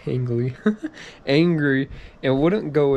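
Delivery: reading through giggles; laughing at own reading. Real, not acted. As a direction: chuckle while stressing angry.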